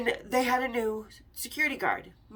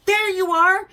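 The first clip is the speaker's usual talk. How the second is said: excited call; 8 semitones higher, 10 dB louder, slower than usual. Retold or imitated. Calling to Vinny through door.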